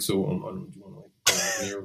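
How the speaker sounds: shy, soft, halting ask; nervous mumble, trailing off; awkward teen boy. Retold or imitated. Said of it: "awkward teenage boy being like".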